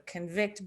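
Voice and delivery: convict stressed on the second syllable; conVICT, the verb form. Shown as a demonstration. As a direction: put the weight on VICT in convict. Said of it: "being the verb".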